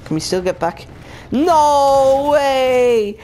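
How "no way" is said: loud, high outcry of disbelief. Real, not acted. Gamer to viewers, finding the glitch spot gone, loud high outcry. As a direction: cry it out, crushed the spot is gone.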